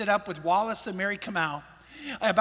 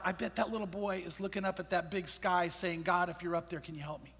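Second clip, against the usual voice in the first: softer, near-silent plea voiced for the boy; hushed imagined prayer; 2 semitones lower, 7 dB quieter than usual. Pastor voicing an orphan boy praying to God, softly. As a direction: let it sink to a fragile murmur.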